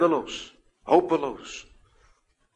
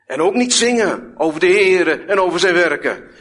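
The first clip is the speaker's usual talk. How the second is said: rising, louder and higher with each line, hammering it home; preaching at full force; 7 semitones higher, 8 dB louder than usual. Acted. Preacher warning the congregation what Satan wants, loud and high. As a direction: thunder the warning from the pulpit.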